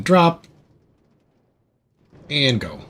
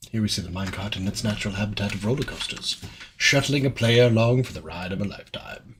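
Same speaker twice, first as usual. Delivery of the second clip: nature documentary; 3 dB quieter than usual. Pretend. Narrates minecart like nature documentary.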